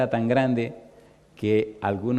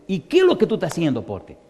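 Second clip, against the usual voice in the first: compañero alarmado; 5 semitones higher, faster than usual. Retold or imitated. Compañero preocupado.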